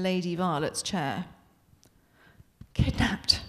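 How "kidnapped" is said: mournful. Acted. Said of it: "she says in a mournful voice".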